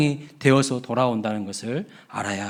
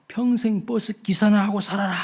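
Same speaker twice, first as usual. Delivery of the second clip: higher, contemptuous curse hurled at the driver; mock curse; 7 semitones higher than usual. Angry young passenger cursing the old bus driver. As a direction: spit out an insult. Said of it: "화가 엄청 났어요".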